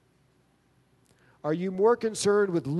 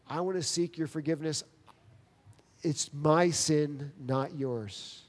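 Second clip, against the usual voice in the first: humble apology. Retold or imitated.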